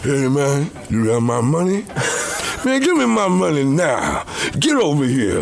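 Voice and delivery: demanding his money. Acted. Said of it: "you gotta do, like".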